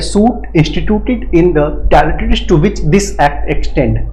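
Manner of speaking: drawn-out reading of the legal clause, very slow; slow statute reading. Shown as a demonstration. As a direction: dictate the clause slowly to the class. Teacher rereads the clause.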